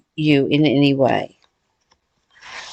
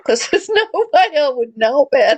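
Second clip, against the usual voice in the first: laughing while quoting; 4 semitones higher than usual. Retold or imitated. Joking request to the neighbour.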